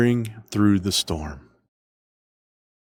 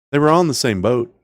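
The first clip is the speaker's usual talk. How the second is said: fast first take; 4 semitones higher, 4 dB louder, faster than usual. Shown as a demonstration. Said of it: "repeated line".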